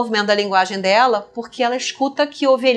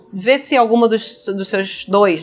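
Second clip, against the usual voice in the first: normal talking voice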